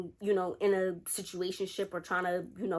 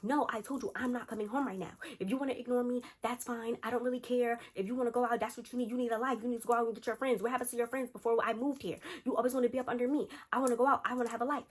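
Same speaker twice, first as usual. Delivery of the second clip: higher-pitched retold phone argument; fed up; 4 semitones higher than usual. Friend argues with boyfriend on the phone, fed up. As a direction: tell off a clingy partner, voice raised in pitch.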